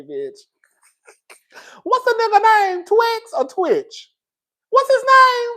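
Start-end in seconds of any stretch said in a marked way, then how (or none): 1.8-5.5 calling out to chat. Real, not acted. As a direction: shout the question out to the room. Calling out to her live chat.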